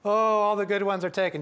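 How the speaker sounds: a hammed-up sob of self-pity; imitating a weepy stranger; mock wail. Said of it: "she starts crying buckets of tears".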